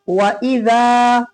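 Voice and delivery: "वइज़ा" with quick "वइ", long held "ज़ा"; careful recitation. Shown as a demonstration. Teacher repeating the stretch, careful recitation. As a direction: hurry "वइ", draw out "ज़ा". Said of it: "जाल को खींचेंगे".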